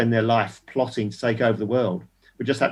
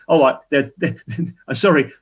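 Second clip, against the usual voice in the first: laughing, hammed-up apology, very slow and higher at the end; mock thwarted vampire; 3 semitones higher, 5 dB louder, slower than usual. Mocking a rapist stopped by a door sign, laughing through a hammed-up vampire voice. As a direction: play a cartoon villain stopped at the door, giggling. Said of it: "like a vampire with a holy cross".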